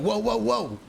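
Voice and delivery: hands-up whoa. Acted. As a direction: back off fast with a high voice. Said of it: "Tim just throws his hands up like".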